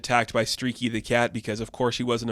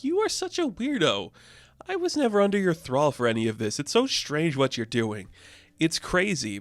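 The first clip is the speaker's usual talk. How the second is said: higher, exasperated put-on voice telling him off; mock Paige; 5 semitones higher than usual. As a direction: scoff at a creepy suitor from up high. Paige tells off Johnny Sorrow.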